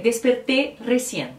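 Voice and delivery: "desperté recién" in a Spanish accent; Spanish example. Shown as a demonstration. Teacher giving viewers a Spanish sentence, Spanish accent. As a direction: read the phrase as a Spanish speaker would. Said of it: "eu posso dizer".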